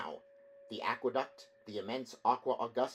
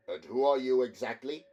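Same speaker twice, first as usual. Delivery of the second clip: haughty demand; 2 semitones higher, 8 dB louder than usual. A narrator's reading.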